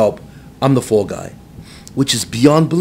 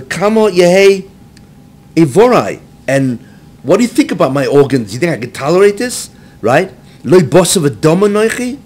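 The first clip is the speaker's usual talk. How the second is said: higher, louder pleading cry; anguished complaint; 5 semitones higher, 5 dB louder than usual. Retold or imitated. Mashiach protesting to God about his body, anguished raised plea. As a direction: beg God that you cannot bear it. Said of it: "when Mashiach started complaining".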